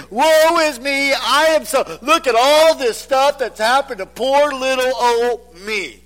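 lightly voiced self-pitying moaner; self-pitying whine. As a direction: ham up self-pity. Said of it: "waller in self-pity and say".

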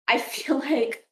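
a bit tipsy, words slipping. Real, not acted. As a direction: talk loosely, tipsy and giggly. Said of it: "I'm kind of tipsy".

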